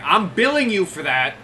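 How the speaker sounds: goblinoid voice. Acted. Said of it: "a little goblinoid voice saying".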